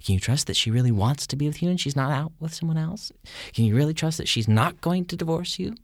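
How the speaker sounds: mock sly weaseling doubter; lightly voiced sneaky meddler; a hint of a weasel stirring doubt. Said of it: "somebody weaseling up to you".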